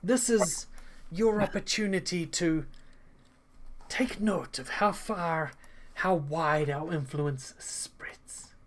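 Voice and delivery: sinister host. Acted. Han addresses guests ominously.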